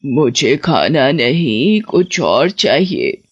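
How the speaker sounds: put-on low, slow, secretive old woman; hidden witch. Witch under a blanket, to the boy, slow and low. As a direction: drag the words out, hiding something. Witch disguised, asks for something else.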